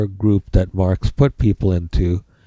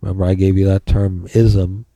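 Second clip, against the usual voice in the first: dictating. Shown as a demonstration. Dictating notes to the class.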